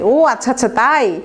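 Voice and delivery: knowing, mildly mocking acknowledgement; mock teasing. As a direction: lightly rib a friend with pretend belief. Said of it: "আমরা মাঝে মাঝে পচাই".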